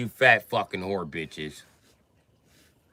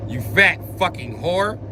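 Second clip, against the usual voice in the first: white dude last words; 5 semitones higher than usual. Retold or imitated. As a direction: spit out last words defiantly. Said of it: "That's gonna be a white dude dying words".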